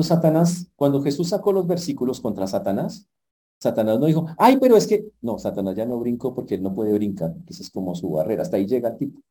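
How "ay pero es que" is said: high, loud whining protest; the devil caught out, whining; squeaky mock complaint; whiny devil. Satan whining after being refuted.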